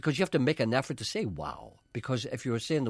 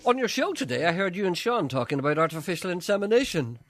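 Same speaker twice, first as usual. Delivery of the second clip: reading a listener's letter; 6 semitones higher than usual. Retold or imitated. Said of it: "says another man".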